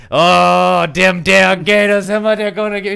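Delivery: high, loud, slow Southern whoop; put-on Southern accent. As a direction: holler in a hammed-up Southern twang. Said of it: "but I was".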